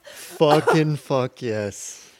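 very slow, loud drawn-out yes; excited cheer. Real, not acted. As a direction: savor the win, stretch it out.

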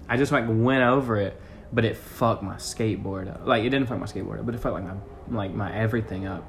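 words half lost in loud wind; wind noise. Real, not acted. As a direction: talk over gusting wind. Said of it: "the wind is so loud".

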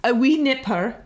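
mock Scottish accent, hammed-up; bad Scottish accent. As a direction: put on a poor Scottish accent.

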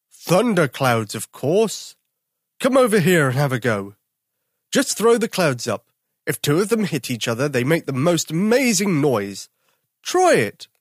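put-on a big bear drafting the boy onto his team; bossy daddy bear. Daddy bear recruits Tom, loud and hearty.

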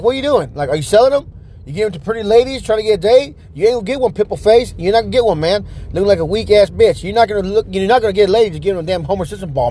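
retold heated rant, mildly worked up; pissed off. Customer accuses clerk of hoarding stress balls, pissed off. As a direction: needle the clerk with irritated taunts. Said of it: "like I said, I got pissed".

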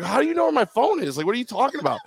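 high, incredulous, ending in a laugh; baffled disbelief. Retold or imitated. Asking the coach how he knows, high and laughing. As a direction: ask it amazed, laughing at the end.

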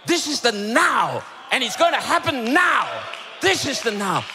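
rally the congregation on each phrase; punchy pulpit exhortation; urgent preaching. Real, not acted. Preaches with raised voice.

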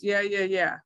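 quick retold brush-off; dismissive brush-off. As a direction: rattle it off, not wanting to listen. Acts out brushing off mentor.

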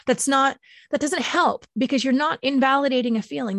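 ordinary talk, nothing marked

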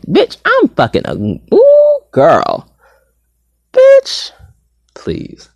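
high-pitched, hammed-up swooning over yourself; mock-orgasmic self-praise. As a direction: play at thrilling yourself to climax. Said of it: "I was giving myself an orgasm".

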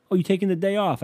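high sarcastic taunt; sarcastic jab. Retold or imitated. Comedian mocking Jesus for slacking, sarcastic. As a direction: needle God mockingly. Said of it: "I've said that before".

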